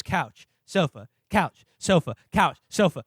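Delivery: slow, alternating "Couch, sofa"; back-and-forth bickering. Retold or imitated. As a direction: trade "Couch" and "sofa" like a tedious argument. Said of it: "just them saying it back and forth".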